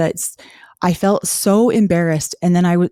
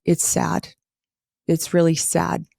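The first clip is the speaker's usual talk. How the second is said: soft, half-whispered and sad; quiet sadness; 4 dB quieter than usual. Real, not acted. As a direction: let it fall to a hush. Ashamed of her past self.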